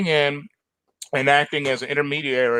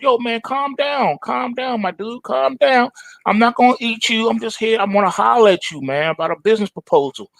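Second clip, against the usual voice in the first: higher, laid-back street voice; cool tiger reassuring; 7 semitones higher than usual. Acted. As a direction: soothe him like a smooth hustler. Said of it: "Tony's like".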